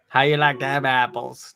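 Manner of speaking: slow Boston accent line. Shown as a demonstration. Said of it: "That's my Boston accent".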